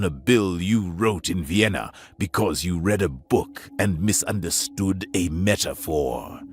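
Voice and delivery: low, cold and cutting; cold contempt. Acted. Captain blaming the alien, low and cold. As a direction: lay the blame coldly. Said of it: "colder than any winter wind".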